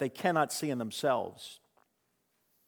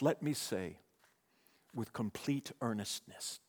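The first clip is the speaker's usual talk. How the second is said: imitated whisper; 4 semitones lower, 9 dB quieter than usual. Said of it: "and then he'd whisper".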